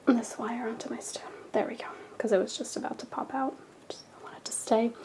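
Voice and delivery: raspy, half-whispered, losing her voice; hoarse from being sick, barely voiced. Real, not acted. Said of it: "I'm losing my voice a little bit".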